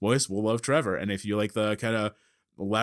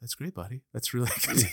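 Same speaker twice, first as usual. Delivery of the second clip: soothing voice; 3 dB quieter than usual. Retold or imitated. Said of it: "calming and, and soothing".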